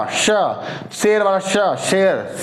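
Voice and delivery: श as in शेर, tongue drawn back toward the palate; demo sound. Shown as a demonstration. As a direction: model श using शेर as the example. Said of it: "जो शेर वाला स है".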